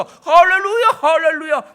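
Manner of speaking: loud, high, laughing hallelujah cry; ecstatic hallelujah. Retold or imitated. Pastor reenacts his joy at the bloody floor, ecstatic shout. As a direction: shout it in giddy triumph.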